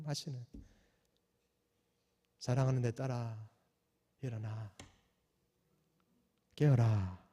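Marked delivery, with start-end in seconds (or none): 2.4-7.2 soft, low, tender calling; quiet loving voice. Retold or imitated. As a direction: gently wake the beloved daughter. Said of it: "요란하지 않은 그 주님의 음성".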